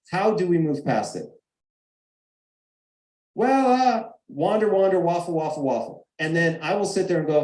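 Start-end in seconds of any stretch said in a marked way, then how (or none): 3.3-6.1 sing-song parody of rambling; mock waffling. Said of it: "what my wife calls waffling".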